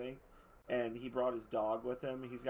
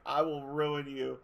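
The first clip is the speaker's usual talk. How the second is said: cat voiced as fighter; 5 dB louder than usual. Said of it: "And Hobbs is like".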